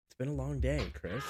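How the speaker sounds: yawning through the words; words stretched by a yawn. Real, not acted. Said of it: "I apologize for yawning".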